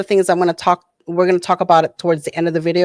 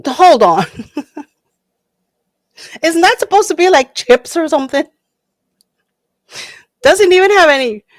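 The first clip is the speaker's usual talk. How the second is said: high, loud, incredulous reaction with laughs; can't believe what's in the chips; shocked disbelief; 9 semitones higher, 4 dB louder than usual. Real, not acted. Reacting to the Takis ingredients, high and shocked.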